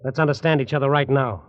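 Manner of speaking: angry. Acted. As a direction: let him have it. Angry showdown with uncle.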